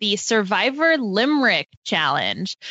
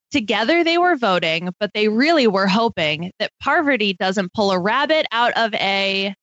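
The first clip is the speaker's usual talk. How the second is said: reading a limerick. Acted. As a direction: read it out like a rhyming riddle. Reads her limerick aloud.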